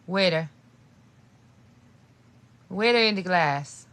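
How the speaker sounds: Waiter in the glass, Aussie-style water as "waiter"; Australian accent try; attempted Australian accent. Shown as a demonstration. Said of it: "talk in an Australian accent and try to say waiter".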